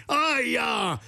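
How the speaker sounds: high, hammed-up ouch; pained cry. A narrator's reading. Storyteller voices the smith stung between the eyes, crying out. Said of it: "grida il fabbro".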